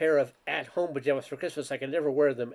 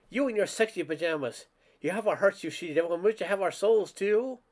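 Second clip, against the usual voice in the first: booming voice; 5 semitones higher than usual. A narrator's reading. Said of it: "a voice booming".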